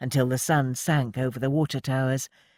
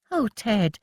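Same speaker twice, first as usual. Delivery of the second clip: exclaiming; 8 semitones higher, slower than usual. A narrator's reading. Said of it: "she exclaimed".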